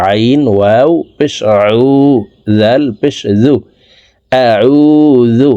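আউযু with ayn from mid throat, drawn out; slow demo of ayn. Shown as a demonstration. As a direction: stress the throat sound in আউযু. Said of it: "আইন হরফের উচ্চারণ হালকের মধ্যখান থেকে".

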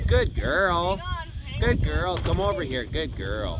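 soft praise for a dog; praising dog. Real, not acted.

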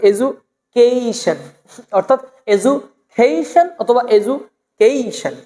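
"এডুকেশন" slowly as e-ju, kei-shon; drawn-out "এডুকেশন", ju for du; long ei glide. Shown as a demonstration. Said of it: "দেখেন এই টাইপের একটা উচ্চারণ".

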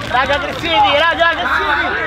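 yelled encouragement to the team; sideline shout. Real, not acted. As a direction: call it out across the pitch. (grido dal bordo campo)

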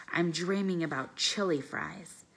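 a lightly voiced drowsy little dog; Bob the dog. Dog Bob on Ivan's belly, lightly voiced drowsy dog. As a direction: mumble it as a sleepy dog.

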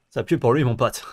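anime villain. Pretend. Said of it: "des méchants d'animé qui parlent comme ça".

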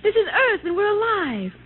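laugh-cry with joy; tearful joy. Acted. Wife realising they survived, tearful joy.

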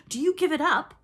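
high, loud, gleeful challenge; crowing. A narrator's reading. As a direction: taunt them with the question. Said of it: "crowed Peter".

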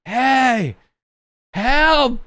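high-pitched hammed-up call; calling for help. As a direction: call out like castaways flagging down rescue. Acts out calling for attention.

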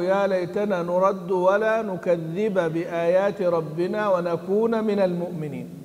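slow, measured chant of the verse; Quran recitation. Shown as a demonstration. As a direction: recite it slowly, drawing out the words. (تلاوة متأنية مرتلة)

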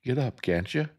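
high, loud frantic shout; screaming. Acted. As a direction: yell it in panic. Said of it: "Jem was screaming".

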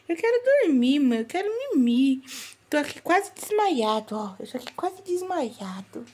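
high pretend baby voice, sleepy whine; voicing the baby. Mother speaking for her drowsy newborn, high baby voice.

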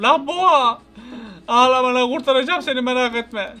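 shouted reassurance, rising; calling out loud. Real, not acted. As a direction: call out to the bull. Calls out to crying bull. (boğaya seslenerek bağırma)

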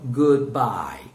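"Goodbye" drawn out in two clear beats; clear, stretched "Goodbye" for learners; model pronunciation. Shown as a demonstration. Teacher models "Goodbye" for students to repeat, drawn out. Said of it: "Repeat, guys".

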